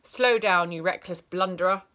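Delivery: loud, barking rebuke; teacher blocking a runner; stern scold. Acted. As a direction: bark at the runner. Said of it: "she would say".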